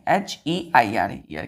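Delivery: letters spelt out one by one, slowly; spelling each letter slowly to pupils. Shown as a demonstration. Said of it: "spelling out letters".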